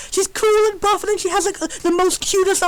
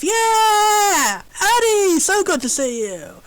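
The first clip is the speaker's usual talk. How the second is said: jock voice; 3 semitones higher, much slower than usual. Acted. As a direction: boom it out like a friendly jock. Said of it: "a jock voice".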